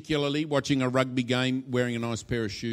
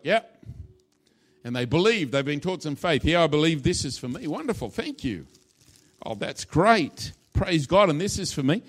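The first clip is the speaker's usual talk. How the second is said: louder, keen believer grabbing the gift; eager Christian; 5 dB louder than usual. Acted. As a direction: cheerfully claim it as yours. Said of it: "this Christian is like".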